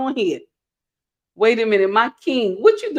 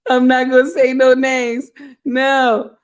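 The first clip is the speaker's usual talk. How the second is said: amused refusal after a giggle fit; tickled, holding back laughter; laughing refusal; 3 semitones higher, 3 dB louder than usual. Real, not acted. Repeats it straight after laughing.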